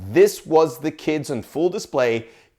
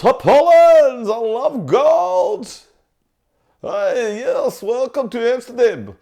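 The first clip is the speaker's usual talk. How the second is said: hammed-up Dutch accent, pitched much higher; 9 semitones higher, 5 dB louder than usual. Host greeting a visitor to Amsterdam, exaggerated Dutch accent. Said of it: "The trick to do a Dutch accent".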